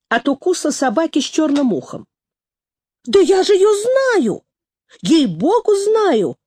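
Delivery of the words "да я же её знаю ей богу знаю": loud excited snort. A narrator's reading. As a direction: blurt it out snorting. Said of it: "всхрапнула тётка".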